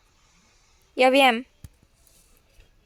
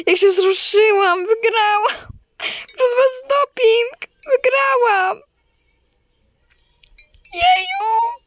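joyful cheering; 8 semitones higher than usual. Real, not acted. Celebrating win, thanking viewers.

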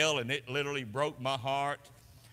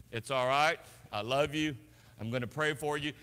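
gentle forgiveness; 4 semitones lower than usual. Shown as a demonstration. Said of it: "I repent and say".

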